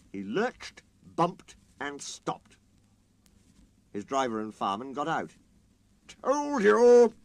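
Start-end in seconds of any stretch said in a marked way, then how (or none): 6.1-7.1 loud, high gloating crow; triumphant. A narrator's reading. Sir Handel gloating after derailing himself. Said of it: "said Sir Handel triumphantly".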